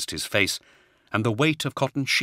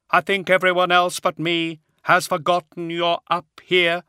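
high hollow unearthly voice; grave, otherworldly brother; 9 semitones higher, 4 dB louder than usual. A narrator's reading. Attias voiced.

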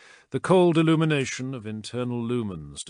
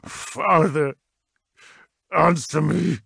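louder, higher commanding call; insistent demand; 7 semitones higher, 7 dB louder, slower than usual. A narrator's reading. Son demanding his father answer, insistent call. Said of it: "he willed".

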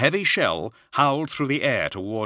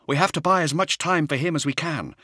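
lightly voiced soldier, raised; earnest young soldier reporting; space marine voice; 9 semitones higher than usual. Nemiel continues.

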